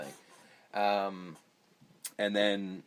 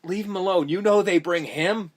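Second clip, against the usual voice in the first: put-on Southern accent; 5 semitones higher, 3 dB louder than usual. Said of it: "he's like".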